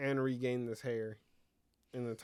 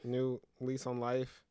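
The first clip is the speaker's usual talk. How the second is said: dramatic movie trailer narration; trailer announcer voice; slower than usual. Pretend. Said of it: "you sound like a trailer for Sex and the City".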